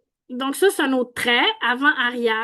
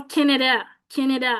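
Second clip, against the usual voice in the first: Canada with English-style lax vowels, almost kɛnedɛ; a light imitation of an anglophone saying Canada; Mark Carney's Canada. Teacher lightly imitating Mark Carney's English-accented Canada. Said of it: "Fait qu'il va dire".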